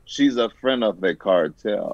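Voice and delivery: low, slow and quiet threat; menacing gangster. Acted. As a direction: growl it like a cartel heavy.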